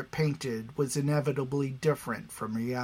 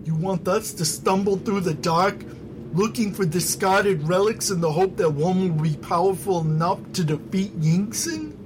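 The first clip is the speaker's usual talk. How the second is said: higher, louder scoffing voice; scornful objector; 6 semitones higher, 4 dB louder than usual. Acted. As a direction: scoff at the idea, incredulous. Basto scoffs at the plan.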